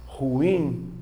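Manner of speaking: "Ruim" drawn out as ru-IM; two syllables. Shown as a demonstration. Teacher demonstrating the hiatus, two syllables. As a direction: lengthen "Ruim" with the stress on IM. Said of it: "Eu tenho duas sílabas".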